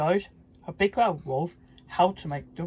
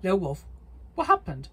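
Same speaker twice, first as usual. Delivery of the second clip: worried cry; 3 semitones higher than usual. Acted. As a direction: call down the well, alarmed. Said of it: "the three little pigs cried".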